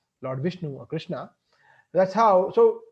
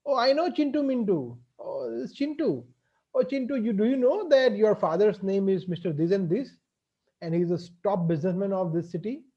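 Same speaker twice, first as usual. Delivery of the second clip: kindly gentleman; 2 semitones higher than usual. Acted. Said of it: "one gentleman came to him and said".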